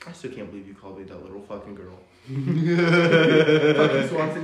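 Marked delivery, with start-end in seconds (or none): 2.3-4.4 mock insult shout.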